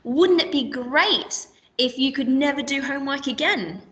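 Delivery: playful advert pitch, "Wouldn't" leading; mock advert question. Shown as a demonstration. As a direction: tempt them with the idea. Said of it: "So we could say something like".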